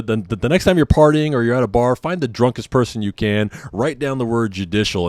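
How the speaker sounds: usual speaking voice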